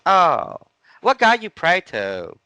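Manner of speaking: high, loud, slow Asian accent imitation. Lady asking which god he prays to, in an Asian accent. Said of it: "I'm gonna do an Asian accent".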